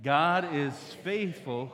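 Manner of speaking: "God is faithful" slow and loud, each word weighted; emphatic. Shown as a demonstration. Preacher has the congregation repeat "God is faithful", emphatic. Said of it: "say it a little bit more emphatically".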